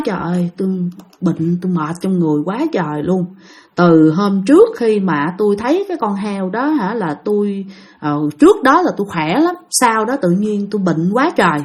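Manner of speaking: lightly voiced ailing man, a little low and soft; mildly feeble, halting complaint; weak sick man. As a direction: speak with drained energy, as if bedridden. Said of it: "lúc đó là rất là yếu ớt".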